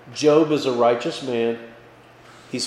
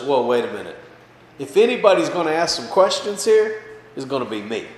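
God taking charge; 4 dB louder than usual. Acted. God cuts off Job's questions.

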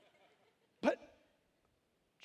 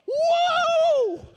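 long, very high, very loud cry of joy; ecstatic whoop; 10 dB louder than usual. Retold or imitated. Preacher acting out winning the World Series, huge whoop. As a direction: let out a huge whoop of victory. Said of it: "That's like".

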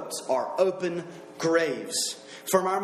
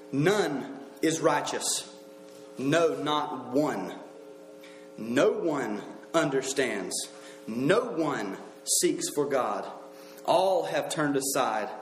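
low, very slow, weighty reading; grave and deliberate, dropping at each line end; solemn scripture reading; 5 semitones lower, slower than usual. Acted. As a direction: read each phrase slowly, with long pauses. Reads scripture aloud.

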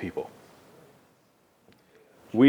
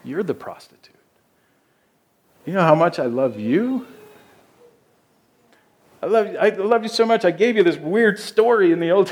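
voicing God; 6 semitones higher than usual. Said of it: "God sometimes looks at us and says".

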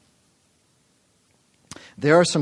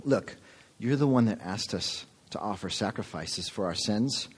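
complaining quote; 5 dB quieter than usual. Retold or imitated. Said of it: "They're complaining and saying".

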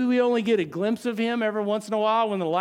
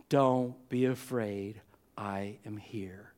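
slow, much softer, fading into a whisper; calm them with a whisper, slowly; hushed reassurance; 11 semitones lower, 6 dB quieter, slower than usual. Acted. Jesus reassures the disciples.

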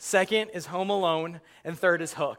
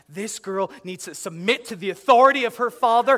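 preachy; 3 semitones higher, 6 dB louder than usual. Retold or imitated. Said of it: "I become really spiritual".

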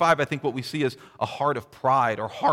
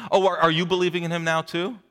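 condescending sneer. Retold or imitated.

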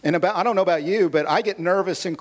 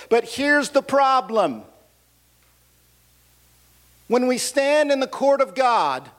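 preaching. Acted. Pastor applying the story to the congregation, earnest preaching. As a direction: drive the gospel point home.

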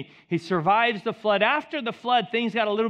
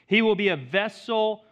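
ordinary delivery

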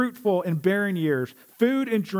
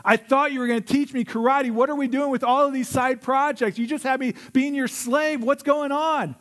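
higher, pushed protest of a fed-up student; mock angry Daniel; 5 semitones higher than usual. Preacher voicing Daniel demanding karate from his teacher, mildly angry. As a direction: complain like a frustrated kid, half acted. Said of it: "so angry that he says".

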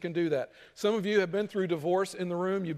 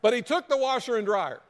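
lightly voiced aggrieved wife, a bit higher; upset wife; 4 semitones higher than usual. Divorcing wife complaining to her counselor, mildly aggrieved. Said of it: "And she says".

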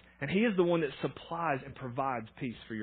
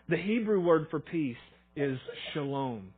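slow and deliberate, leaning on Hebrew; slow dictation; slower than usual. Shown as a demonstration. Pastor dictating the note to fill in, slowly. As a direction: spell it out so they can write it down. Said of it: "fill in the blanks here with me".

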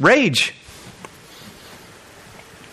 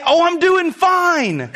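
mock fake cheer; 4 semitones higher, much slower than usual. Mock fake fine reply.

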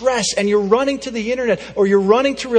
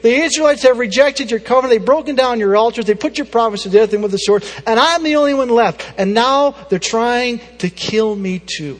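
anguished Elijah; 2 semitones higher, 5 dB louder than usual. Acted. Elijah's complaint retold loudly.

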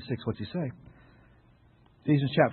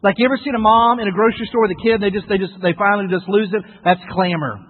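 raised, punchy preacher voice; forceful preaching; 7 semitones higher, 9 dB louder than usual. Real, not acted. Preacher illustrating clamor to the congregation, forceful. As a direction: preach it out loud and insistent.

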